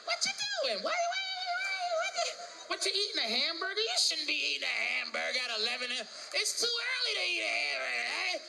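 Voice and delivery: nagging wife. Acted. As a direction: scold him like a fussy partner. Acted partner nagging about food.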